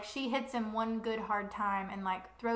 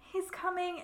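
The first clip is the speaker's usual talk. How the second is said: frightened whisper; 9 semitones higher than usual. Acted. Nesta panicking as king approaches.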